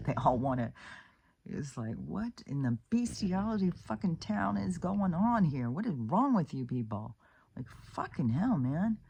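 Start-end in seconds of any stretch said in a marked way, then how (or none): 2.0-7.1 high, incredulous outburst; outraged disbelief. Real, not acted. Vlogger ranting about abusers in high outraged disbelief. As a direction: voice jumps up in shocked disgust.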